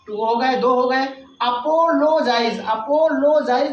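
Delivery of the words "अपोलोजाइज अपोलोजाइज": "अपोलोजाइज" in three measured beats; split into three parts. Shown as a demonstration. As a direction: sound out अपो, लो, जाइज distinctly. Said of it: "three part हो गए".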